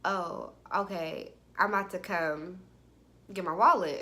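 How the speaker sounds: low, subdued imitation of a rattled man; shaken. Man learning she has his wallet, lightly voiced as shaken. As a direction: play him slightly thrown and hesitant. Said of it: "I hear in his voice, like, he shook".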